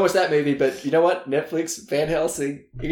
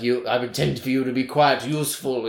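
maniacal villain; 4 semitones lower than usual. Retold or imitated. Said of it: "he's being very maniacal".

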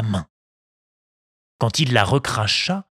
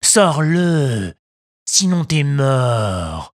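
slow, loud menacing bandit; threatening; 2 semitones higher, 4 dB louder, much slower than usual. Acted. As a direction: threaten him with slow weight. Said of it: "menaça le plus grand".

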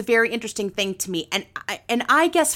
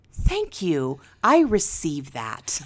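calm sincere thanks; 4 semitones lower, slower than usual. Shown as a demonstration. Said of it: "I want your response to be".

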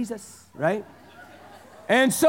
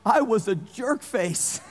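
sheepish; slower than usual. Retold or imitated. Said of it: "my other response was".

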